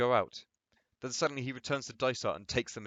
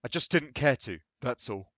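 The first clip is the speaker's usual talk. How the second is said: tight; 3 dB louder than usual. Acted. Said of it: "in a tight manner".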